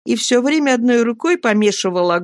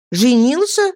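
a light, glad surprised call; joyful cry; 6 semitones higher, 3 dB louder than usual. A narrator's reading. Narrator to Traddles, a mild happy cry. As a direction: ask back in happy surprise. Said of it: "радостно крикнул я".

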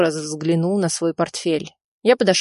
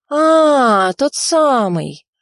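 sudden recognition; 7 semitones higher, 5 dB louder, much slower than usual. Acted. Bespalov suddenly recalls the officer.

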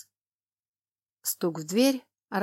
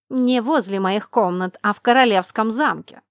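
sharp, louder rebuke; angry; 2 semitones higher, 7 dB louder than usual. Acted. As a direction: cut him down, voice rising. Heroine rebukes the lord.

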